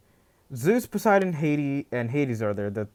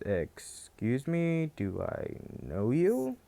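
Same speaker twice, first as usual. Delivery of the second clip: confused quiet; 7 dB quieter, slower than usual. Retold or imitated. Deku meets forgotten parents.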